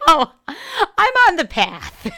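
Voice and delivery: poking fun at her own spiritual phrase, mock serene. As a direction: stretch it out like a blissed-out guru. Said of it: "she always thinks it's funny when I say".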